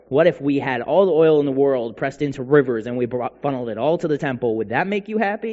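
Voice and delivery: escalating mock offers, lightly sarcastic. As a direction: pile up absurd offers with sarcastic insistence. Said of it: "they sarcastically say this to God".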